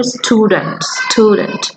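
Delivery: স্টুডেন্ট said carefully twice, each with a falling end; pronunciation demo. Shown as a demonstration. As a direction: model স্টুডেন্ট for them to repeat. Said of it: "স্টুডেন্টের উচ্চারণটা কি হবে?".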